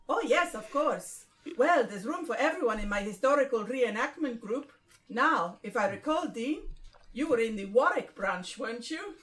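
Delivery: attempted Spanish accent; Gary. Group leader welcomes newcomer, in a rough Spanish accent. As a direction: put on a loose Spanish accent. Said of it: "Gary Spanish".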